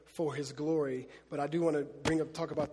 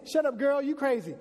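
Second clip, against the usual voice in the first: loud, higher brush-off then fervent prayer; dismissive then praying; 6 semitones higher, 5 dB louder than usual. Acted. Praying crowd dismissing the girl, loud mock prayer. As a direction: wave her off and keep praying. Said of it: "They say".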